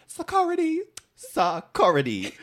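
high shrill-free yell of "Security!"; screaming quote. Retold or imitated. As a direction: scream it like the meme. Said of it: "we were screaming".

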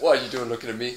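mock challenge in Southern accent. Man confronting a passer-by, mock Southern accent. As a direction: challenge them in put-on Southern American. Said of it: "Southern American".

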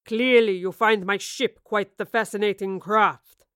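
captain mocks the professor, slow and scornful; mocking captain. A narrator's reading. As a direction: sneer at her interest in the ship. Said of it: "he observed mockingly".

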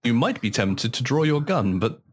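lightly mocked game narrator, slowing into the warning; cheesy voiceover. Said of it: "It was the cheesiest fucking voiceover".

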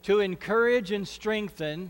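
phrase by phrase, pausing for the echo; short phrases with pauses. Shown as a demonstration. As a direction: call it out for the room to repeat. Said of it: "you repeat after me".

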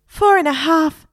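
a parrot haggling over days, high and loud. A narrator's reading. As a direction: bargain hard, squawking.

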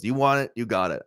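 mock snapping. Imitating a wrestler goaded into a match, mildly snapping. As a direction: imitate someone suddenly taking the bait. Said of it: "then he snaps and goes".

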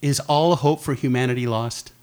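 grave interviewer question; mock interviewer. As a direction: put the big question solemnly. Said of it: "I have a question for her".

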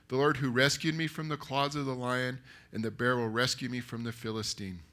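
measured, firmly projected story reading; scripture narration. A narrator's reading. Preacher reading David's answer to Saul, steady narration. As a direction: read the Bible story out to a congregation. Reads the Bible story aloud.

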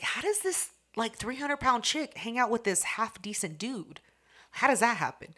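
high-pitched, baffled question; mock bewilderment; incredulous. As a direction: act out disbelief, pitch jumping up at the start. Retelling own bafflement at the couple.

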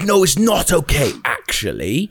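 the neighbour's protest replayed as a half-sung parody; mock indignant woman. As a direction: repeat her line in a lilting mock tone. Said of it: "she was like".

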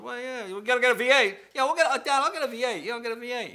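high-pitched, loud, insistent dad voice; loud acted dad. Dad giving in to his son over the engine, loud and high.

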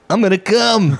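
laughing. Real, not acted. Gleeful repeat.

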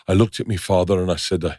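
tentative attempt at an Irish or Scottish accent; unsure Irish-Scottish accent. Retelling a survivor's story, wobbly Irish-Scottish accent. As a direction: feel your way into a rough Irish-Scottish accent. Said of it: "I don't know what accent I'm doing".

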